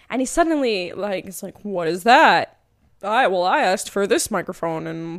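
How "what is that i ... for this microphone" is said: retold indignant outburst, loud at first; mock upset over a trifle; mildly upset. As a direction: imitate someone getting worked up. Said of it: "he's kind of getting upset".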